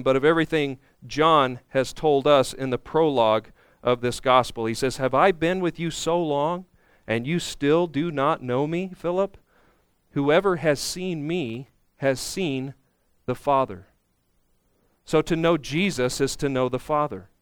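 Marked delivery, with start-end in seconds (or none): 5.0-13.9 soft, measured reproof; quiet, patient quotation; gently reminding. Retold or imitated. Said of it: "He gently reminds them".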